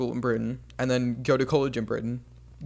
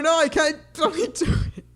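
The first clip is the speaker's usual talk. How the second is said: frustrated complaint. Real, not acted. Frustrated about losing the accent.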